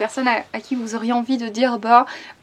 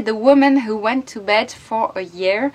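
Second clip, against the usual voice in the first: reading the English title "The Woman Who Went to Bed for a Year" in a French accent; a French reader tries the English title; much slower than usual. Real, not acted. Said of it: "Avec mon accent pourri".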